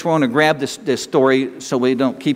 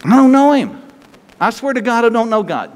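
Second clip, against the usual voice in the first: imitating a loud, high denial; mock angry denial; 7 semitones higher, 3 dB louder than usual. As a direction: shout "I don't know him" as a cornered liar. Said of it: "Now he's swearing".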